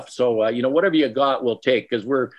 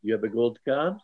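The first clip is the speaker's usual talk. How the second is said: fake French accent. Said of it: "my fake French accent for you".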